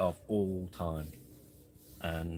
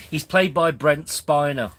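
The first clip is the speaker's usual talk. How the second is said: slow and loud, a bit higher, in character; slow loud impression voice; 5 semitones higher, 8 dB louder, slower than usual. Shown as a demonstration. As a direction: play it slow, loud and high like a TV android. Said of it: "Oh, that's terrible".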